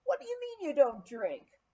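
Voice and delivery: can't believe his ears; dumbfounded. Retold or imitated. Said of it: "Pete was dumbfounded".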